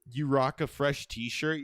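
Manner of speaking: slow, drawn out delivery; slow and deliberate. Shown as a demonstration. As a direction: stretch each word out slowly. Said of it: "can we give our best".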